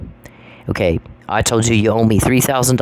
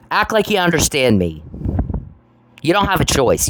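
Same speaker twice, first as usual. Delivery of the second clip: pitched up, insistent and falling; real frustration in a raised pitch; exasperated demand; 5 semitones higher than usual. Real, not acted. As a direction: lay down the law, fed up. Repeats demand to be understood.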